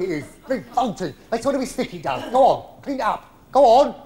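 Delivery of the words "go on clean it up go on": louder, higher push; urging. Acted. Old pro ordering Silvano to clean the toilets, loud. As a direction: shoo him off to clean.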